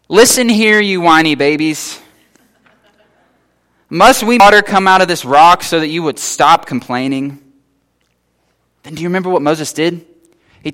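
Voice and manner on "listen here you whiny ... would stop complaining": scolding. Retold or imitated. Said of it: "Moses says".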